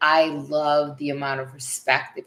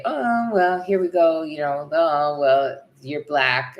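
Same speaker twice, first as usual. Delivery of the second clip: mock judgmental reaction; 4 dB louder, slower than usual. Imagined local sizing up her partner, mock judgmental. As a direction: imitate someone making a pointed remark.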